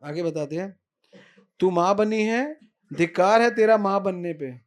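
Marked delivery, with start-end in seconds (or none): 1.6-4.6 loud indignant scolding; angry rebuke. Acted. Dau scolding Yashoda for being a bad mother, loud angry. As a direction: tear into her with fury.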